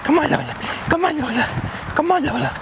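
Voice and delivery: high sing-song dog call. Real, not acted. Calling the dog Lola.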